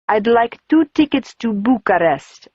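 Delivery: put-on old man with a faint Eastern European accent; lightly voiced foreign accent.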